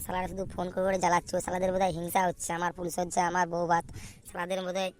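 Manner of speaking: a hint of a tipsy, grumbling groom, mostly soft; a drunk groom cursing his friends, lightly slurred; lightly voiced drunk groom. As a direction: mutter on like a mildly drunk man. Groom drunk alone, rambling.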